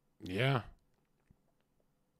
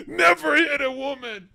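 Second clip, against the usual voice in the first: squeaky high-pitched mock quote; high squealed mock line; 12 dB louder than usual.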